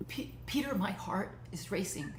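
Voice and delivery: breathless hushed whisper; tearful whisper. Acted. Overcome ex-lover whispers to Peter, hushed whisper. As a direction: barely get his name out in a whisper.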